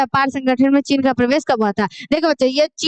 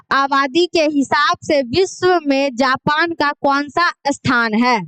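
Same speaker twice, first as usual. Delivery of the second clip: slow question reading; slower than usual. Acted. Reads quiz question slowly.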